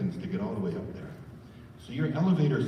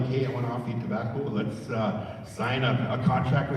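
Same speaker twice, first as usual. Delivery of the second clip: casual wrong offer. Shown as a demonstration. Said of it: "Not like".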